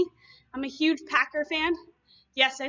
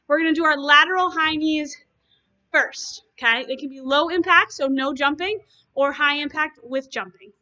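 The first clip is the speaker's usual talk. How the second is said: loud coaching call; 7 dB louder than usual. Real, not acted. Coach calls out over music.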